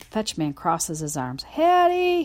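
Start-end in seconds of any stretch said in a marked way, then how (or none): 1.4-2.2 loud, high sharp call; snapping her name. Acted. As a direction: snap her name to stop her. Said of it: "he snaps".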